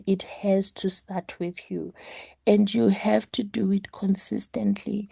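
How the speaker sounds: rough, hoarse sick voice. Real, not acted. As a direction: voice worn out from flu. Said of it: "apologies for my voice".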